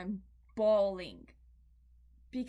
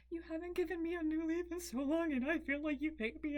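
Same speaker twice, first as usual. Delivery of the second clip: higher, whiny mock hurt toward the plant; whiny complaint; 5 semitones higher than usual. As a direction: sulk at the plant like it snubbed you. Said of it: "and I was like".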